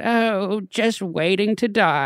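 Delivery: put-on high, slow, drawn-out old-lady sigh; imitating an elderly British woman; British grandmother. Grandmother answers Dean's greeting, weary old British voice. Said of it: "and she said".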